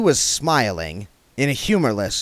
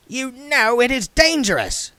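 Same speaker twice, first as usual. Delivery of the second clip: dwarf voice; 4 dB louder than usual. A narrator's reading. Goodmountain voiced.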